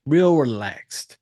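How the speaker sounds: slow, lingering on each word; drawn out. Real, not acted. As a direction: stretch out REAL and RELAXED. Drawing out the key description.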